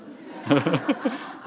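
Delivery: light burst of chuckling; chuckle. Real, not acted. Speaker joking to audience about his accent, chuckling. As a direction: chuckle at your own joke. Laughs at own accent joke.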